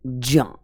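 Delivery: ज्ञान as a long falling "jyaa"; sounding it out. Shown as a demonstration. Teacher showing what to say, drawn-out "jyaa". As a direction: open ज्ञान on j and hold the vowel. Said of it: "देखो क्या बोलेंगे".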